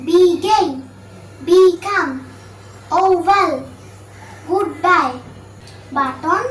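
begin, become, oval, goodbye, button said as two distinct syllables; two syllables each. Shown as a demonstration. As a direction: demonstrate the two parts, as in "be-gin". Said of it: "যেসব ওয়ার্ডে দুইটি মাত্র syllable থাকে". (begin থেকে button প্রতিটি শব্দ দুই ভাগে উচ্চারণ)

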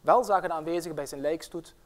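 once-upon-a-time storytelling voice; fairy tale narration. Acted. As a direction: tell it like a fairy tale, with drama. Reads a fairy tale aloud.

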